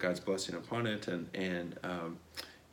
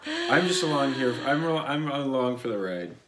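talking through laughter, louder; chuckling out the words in amusement; laughing; 6 semitones higher, 7 dB louder than usual. Real, not acted. Husband laughing as wife asks today's topic. Laughing at his wife's question.

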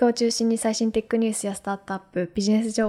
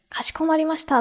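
ultra polite japanese; 5 semitones higher than usual. Retold or imitated. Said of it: "丁寧すぎて".

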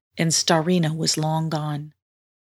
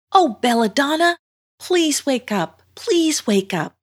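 put-on pleading young heroine; 8 semitones higher than usual. Girl begs a lifeless mermaid to wake, pleading. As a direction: plead in a high voice, stretching the words.

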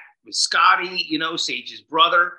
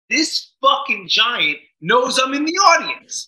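excited; 8 semitones higher, 7 dB louder than usual. Real, not acted. Excited story of feeling singled out.

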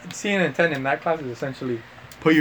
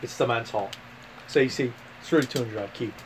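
Aussie explainer, pausing between phrases; mock Australian accent; 3 semitones lower, 6 dB quieter than usual. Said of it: "Australia, mate".

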